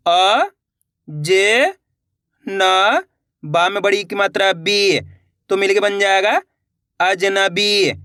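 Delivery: अ, जे, न, बी sounded one by one, then अजनबी slowly blended; syllable by syllable. Shown as a demonstration. Teacher showing pupils how to read अजनबी, slow blending. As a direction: spell it out letter by letter, then join. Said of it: "देखिए किस तरीके से".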